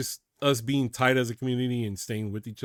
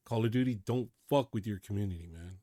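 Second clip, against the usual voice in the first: much softer, pleading low; low earnest plea; 7 semitones lower, 9 dB quieter than usual. Real, not acted. YouTuber pleading with Call of Duty, low and earnest. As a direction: beg them sincerely, hushed. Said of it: "I swear".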